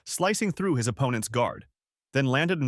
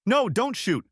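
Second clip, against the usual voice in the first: loud, very high pleading yell; desperate yell; 12 semitones higher, 3 dB louder than usual. Acted. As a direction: stop them before they fire. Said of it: "Amju's husband yelled".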